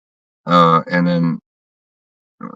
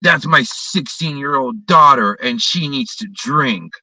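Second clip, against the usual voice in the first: slow, raised mock dad voice; 5 semitones higher, slower than usual. Retelling the drunk father who grabbed the bottle, slow mocking voice. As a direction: drag it out like a smug drunk father. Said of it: "And says".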